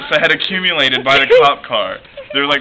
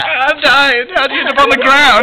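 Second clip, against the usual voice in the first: mock dying; 9 semitones higher, 4 dB louder than usual. Retold dying moan.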